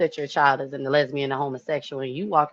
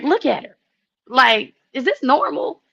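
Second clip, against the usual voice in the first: alarmed question; 9 semitones higher, 4 dB louder than usual. Retold or imitated. Anxious question to husband.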